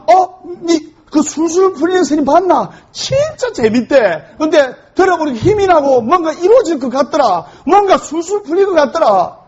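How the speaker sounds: high, eager chatter between friends; excited gossip. Retold or imitated.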